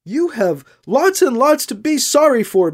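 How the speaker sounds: "sorry" spat out with contempt; scornful reproach, spitting the word "sorry". A narrator's reading. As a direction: bite down hard on "sorry". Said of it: "practically spitting out the word sorry".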